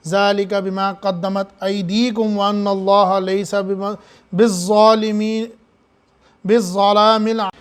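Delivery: slow chanted verse recitation; Quranic recitation. Acted. Preacher reciting the verse to the congregation, slow chant. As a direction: draw out the verse like tajweed.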